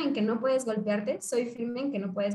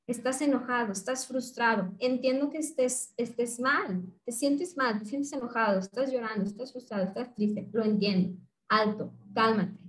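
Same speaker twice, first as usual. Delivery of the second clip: empathetic validating. Shown as a demonstration. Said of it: "entramos por la emoción".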